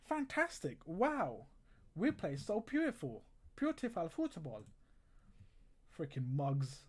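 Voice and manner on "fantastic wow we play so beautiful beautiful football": high, sarcastic mock praise. Real, not acted.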